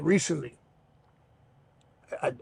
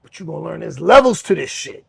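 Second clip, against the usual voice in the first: louder, firm but not shouting; raised voice no yell; 2 semitones higher, 11 dB louder than usual. Retold or imitated. Bobby warning the rival, raised voice not yelling. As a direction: lift the voice without yelling. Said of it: "Bobby raised his voice, but he didn't yell".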